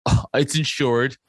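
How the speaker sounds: slow, lightly mocking smarmy reply. Truck driver brushing off a complaint, imitated as smarmy. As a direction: imitate a smug brush-off, drawn out. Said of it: "being a fucking smarmy cunt".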